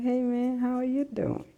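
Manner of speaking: voicing the dog. Dog greeting owner in the morning, lightly voiced cheerful dog. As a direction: chirp it like a glad pet. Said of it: "She's like".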